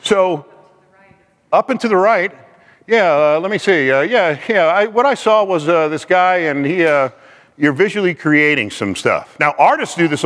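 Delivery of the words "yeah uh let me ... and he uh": stalling with uhs and yeahs; acted fumbling for a made-up story; hesitant recalling. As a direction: piece it together as you go, haltingly. Acts someone inventing a recollection.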